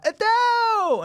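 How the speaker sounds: high, loud excited cry of a name; starstruck squeal. Retold or imitated. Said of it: "Suddenly everyone's like".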